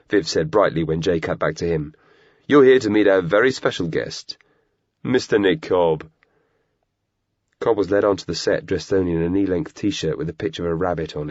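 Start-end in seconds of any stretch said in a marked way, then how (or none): 2.5-6.1 grand host announcing a guest; TV host intro. Acted. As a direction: build up the guest's name.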